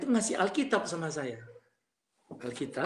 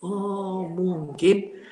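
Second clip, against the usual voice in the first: long drawn-out, louder "oh"; dawning realisation; 5 dB louder, much slower than usual. Retold or imitated. Speaker works out the rumour's cause, slowly realising. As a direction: stretch it out as the penny drops. Acts out his sudden realisation.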